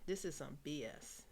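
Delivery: a hushed whisper of inner thoughts; whispering a private thought while politely nodding. Retold or imitated. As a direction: whisper what you really think inside. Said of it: "Meanwhile, inside, I'm like".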